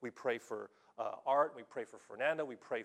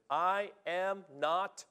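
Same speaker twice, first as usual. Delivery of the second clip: slow emphatic quote; 2 semitones higher, much slower than usual. Shown as a demonstration. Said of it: "The literal translation is".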